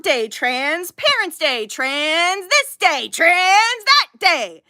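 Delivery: slow, drawn-out list, each item hammered; exasperated mockery. Real, not acted. Streamer sick of awareness days, slow exasperated mockery. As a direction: stretch "this" and "that" in weary scorn.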